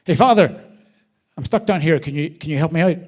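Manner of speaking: man in a hole shouting up to a priest for help. Retold or imitated. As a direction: call out to the passing priest. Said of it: "and he shouts".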